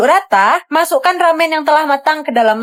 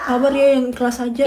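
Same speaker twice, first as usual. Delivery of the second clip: teasing laugh. Acted. Teasing friend who lost phone.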